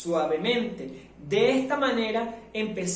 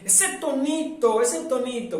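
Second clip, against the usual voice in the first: mock wife; 3 semitones higher than usual. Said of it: "de nuestras esposas que dicen".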